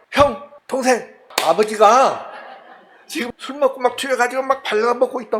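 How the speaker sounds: high, fast giggling report; gleeful mock tattle, high and quick; excited laughing tattle. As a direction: blurt it out laughing like a tattling son. Ham calls brothers, laughing.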